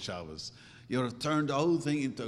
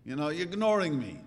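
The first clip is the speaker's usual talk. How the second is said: mock child's yell; 2 semitones higher, 5 dB louder than usual. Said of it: "the child is screaming".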